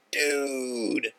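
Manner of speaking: slow, rising gush of mock awe; hammed-up overjoyed buddy; thrilled. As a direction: stretch it out like it's the best thing ever. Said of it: "It's like the best thing ever to him".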